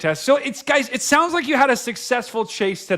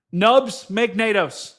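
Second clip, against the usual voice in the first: slow catchphrase; much slower than usual. Shown as a demonstration. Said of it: "We always know on this channel".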